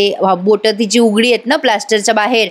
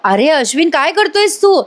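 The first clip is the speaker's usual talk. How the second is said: rising mock yell, higher at the end; imitating Arjun calling out, pitch climbing; retold shout; 5 semitones higher than usual. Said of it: "Arjun पण ओरडतो".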